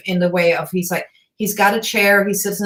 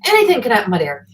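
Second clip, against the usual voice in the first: quoted grumpy grandpa insisting; 6 semitones higher than usual. Retold or imitated. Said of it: "he said".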